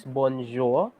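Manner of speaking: bonjour said slowly, like the first word; slow model pronunciation. Shown as a demonstration. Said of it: "the first one".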